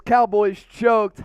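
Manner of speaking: gloating. Real, not acted. Gloating over rival loss.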